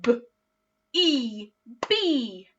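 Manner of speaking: "B, E, B" split into separate sounds; teacher leading a blend; sounding out again. Shown as a demonstration. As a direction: segment each sound with a pause. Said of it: "Let's do that one more time".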